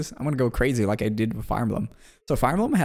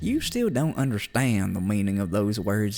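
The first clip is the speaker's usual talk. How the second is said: accusing caller; 2 semitones lower, slower than usual. Acted.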